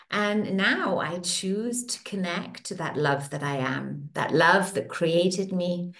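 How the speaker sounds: slow, calm affirmation voice; soothing tapping-session guide; guided affirmation. Acted. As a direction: speak each affirmation as a gentle promise.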